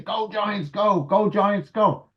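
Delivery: high, excited mock yell out the window; kid's yell. Boy yelling out the window for the Giants, high mock yell. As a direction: chant it like a kid cheering his team. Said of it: "and started screaming".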